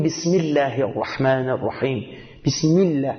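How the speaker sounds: الله in بسم الله said with a thin, light lam and a low vowel after the i; low Arabic Allah. Shown as a demonstration. Preacher teaching prayer Arabic says بسم الله with a light, low الله. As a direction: read بسم الله الرحمن الرحیم with الله kept low, not heavy. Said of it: "یعنی میاریم پایین".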